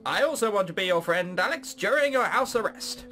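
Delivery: lightly put-on parrot drone voice; silly, salesman-like official pitch. Surveillance parrot explains itself to Alex, silly voice. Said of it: "I'm putting on a silly voice".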